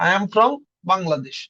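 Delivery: slow, clear English sentence; slow demo. Shown as a demonstration. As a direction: say it slowly for students. (ধীরে স্পষ্ট বলা)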